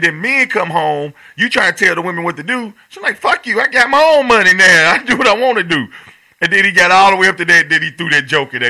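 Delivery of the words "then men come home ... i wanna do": comic retelling. Retold or imitated. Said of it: "He said".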